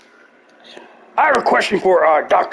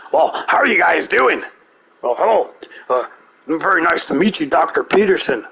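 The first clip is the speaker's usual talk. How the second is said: Alex Jones impression. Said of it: "Alex Jones will be like".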